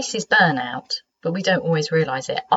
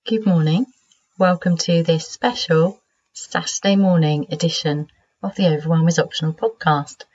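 croaky sleepy voice. Real, not acted. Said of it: "croaky, sleepy voice".

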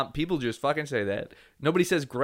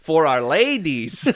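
mock Eastern European; 4 dB louder, slower than usual. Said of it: "guise of the European man".

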